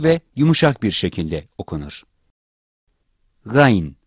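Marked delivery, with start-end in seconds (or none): 3.5-4.0 Arabic ghayn demo; gargled Gayn. Shown as a demonstration. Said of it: "Boğazın ağız boşluğuna yakın bir yerinden".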